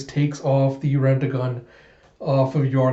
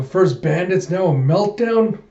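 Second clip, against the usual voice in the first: acted dismayed disbelief; 6 semitones higher, 4 dB louder than usual. Characters react to new disaster.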